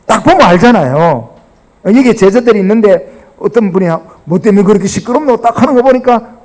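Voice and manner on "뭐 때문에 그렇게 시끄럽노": Gyeongsang dialect. Acted. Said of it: "경상도 버전입니다".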